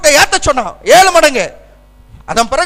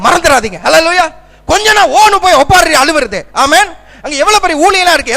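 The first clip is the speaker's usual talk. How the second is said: raised-voice sermon exhortation; forceful preaching; 3 semitones higher than usual. Real, not acted. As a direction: press the congregation hard, voice lifted.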